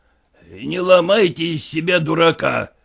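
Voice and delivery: намёк на строгого генерала; сдержанно строгий упрёк. Acted. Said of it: "строго сказал генерал". (генерал строго одёргивает Куцина, сдержанно)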